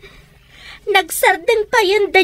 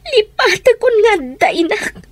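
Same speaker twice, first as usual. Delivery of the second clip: crying. Acted. Daughter answers, crying.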